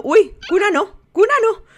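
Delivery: put-on high whiny baby protest. Mum voices the baby refusing the crib, high whiny baby. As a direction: whine it like a fussy baby. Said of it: "La niña está diciendo".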